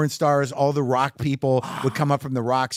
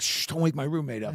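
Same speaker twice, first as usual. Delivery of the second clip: softer shushing warning; hushed warning; 6 dB quieter than usual. Retold or imitated. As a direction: hush them so the roommate sleeps. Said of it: "and he's like".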